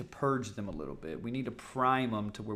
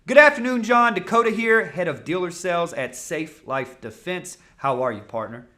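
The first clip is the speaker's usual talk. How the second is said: flowing tonal patterns; 5 semitones higher, 10 dB louder than usual. Shown as a demonstration. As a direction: let the greeting flow from a high, loud opening. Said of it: "Hear how it flows different".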